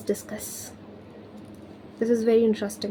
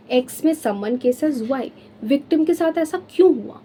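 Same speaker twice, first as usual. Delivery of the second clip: normal talking voice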